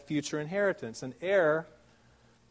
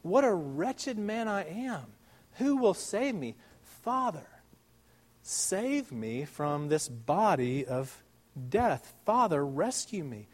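anguished cry; 2 semitones higher, slower than usual. Acted. Preacher voicing Paul crying out to God, pleading. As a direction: voice Paul's wretched cry to the Father. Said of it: "Paul cried out".

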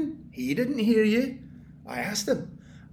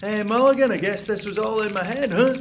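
mock gloat; 5 dB louder than usual. Mocking imagined gloat at landlord.

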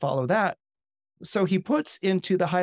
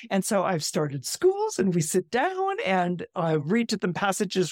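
higher, eager voice of a pious missionary; zealous missionary; 4 semitones higher than usual. Retold or imitated. Miss Brinklow gushing to Conway about her schools, higher and eager. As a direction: gush about saving the heathens, climbing to a squeal at the end.

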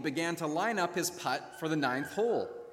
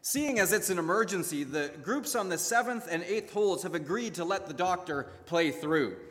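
calm husband; 2 semitones higher than usual. Acted. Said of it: "her husband calmly replied".

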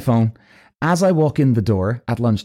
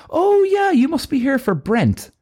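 very high, helpful receptionist voice; slow, pitched-way-up realization; slower than usual. Retold or imitated. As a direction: imitate a woman suddenly catching on. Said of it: "And she goes".

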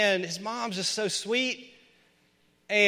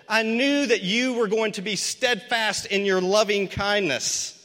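bitter complaint; 4 semitones higher, 4 dB louder than usual. Acted. Jonah complaining bitterly to God.

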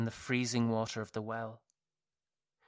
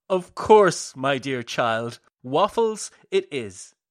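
gleeful madman; 8 dB louder than usual. A narrator's reading. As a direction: burst out happily, unhinged cheer. Madman laughing, cheerful reply.

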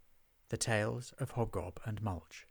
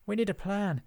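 high-pitched, lightly puffed line; panting; 9 semitones higher, 3 dB louder than usual. A narrator's reading. Hobgob after the getaway dash, mildly out of breath. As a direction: speak as if just after a dash. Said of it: "still panting after their getaway dash".

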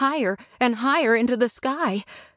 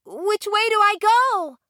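high, louder urgent call; 14 semitones higher, 3 dB louder than usual. Acted. Dorothy calling after the fading Glinda, urgent and high. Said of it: "shouted Dorothy urgently".

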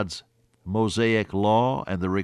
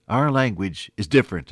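standing a little taller, said louder; proud retelling; 5 dB louder than usual. Retold or imitated. Speaker of Czech sets own language apart, proudly. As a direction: imitate mild national pride. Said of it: "they stood a little taller as they said it".

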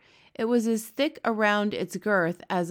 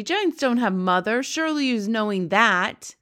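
louder insisting giant; 3 semitones higher, 5 dB louder than usual. Acted. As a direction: set the child straight. BFG insisting.

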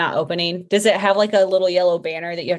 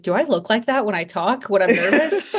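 self-conscious; 3 semitones higher than usual. Retold or imitated. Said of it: "I'd get self-conscious because I'm like".

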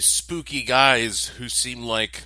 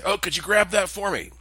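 higher, chipper voice of a friendly stranger; lightly voiced cheerful middle-aged man; 11 semitones higher, 6 dB louder than usual. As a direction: play the eager neighbour asking a favour. Stranger's voice at elevator door.

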